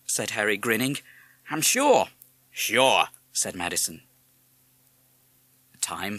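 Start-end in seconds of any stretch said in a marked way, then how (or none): 1.5-2.0 put-on high, loud boyish reply; Harry's assurance. A narrator's reading. Harry reassuring his father, high and confident. 2.5-3.1 loud, short parrot echo. A narrator's reading. Parrot echoing Harry, loud mimicry.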